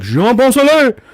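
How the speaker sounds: high, loud call of a name; excited greeting. Retold or imitated. Old friends greeting him by full name, thrilled. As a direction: hail an old friend with delight. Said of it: "they'll come up to me and still be like".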